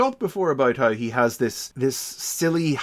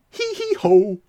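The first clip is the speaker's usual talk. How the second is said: louder odd giggle ending in ho; faking madness; 8 semitones higher, 6 dB louder than usual. Shown as a demonstration. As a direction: giggle hee hee then a round ho. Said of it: "He goes".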